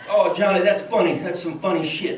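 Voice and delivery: a hint of Bush chuckling at Johnny; George Bush impression. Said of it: "I'm gonna do George Bush and Johnny Carson".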